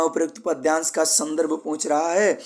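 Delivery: normal talking voice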